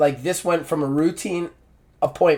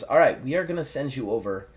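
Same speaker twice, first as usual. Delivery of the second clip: deadpan, low-key doctor; understated stone-faced delivery; 4 semitones lower, 7 dB quieter than usual. Retold or imitated. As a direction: deliver it evenly, matter-of-fact. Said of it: "like, stone-faced".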